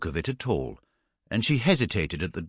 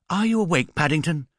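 calling out; 7 semitones higher than usual. A narrator's reading. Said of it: "called Missus Brown".

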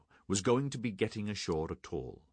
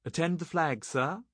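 high, loud shipboard call; shouted; 11 semitones higher, 4 dB louder than usual. A narrator's reading. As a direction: call it out across the deck. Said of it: "shouted from the stern rail".

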